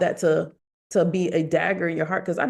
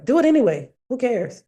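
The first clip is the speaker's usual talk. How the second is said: emphatic mantra; 6 semitones higher, 4 dB louder than usual. Real, not acted. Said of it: "That's my mantra".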